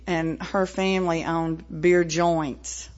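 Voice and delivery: "joints" drawn out slowly and leaned on; stress on joints. Real, not acted. Telling the meeting about her family's bars, slow stress on "joints". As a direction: linger on "beer joints" with a knowing weight. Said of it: "I emphasize the word joint".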